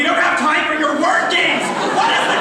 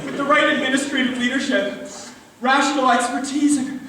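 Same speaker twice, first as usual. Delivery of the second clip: put-on Scottish accent. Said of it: "Where did that Scottish accent come from?".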